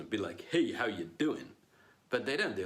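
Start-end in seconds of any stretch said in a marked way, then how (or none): 0.5-1.5 casual Brooklyn greeting; Brooklyn accent. Acted. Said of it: "speak with a Brooklyn accent".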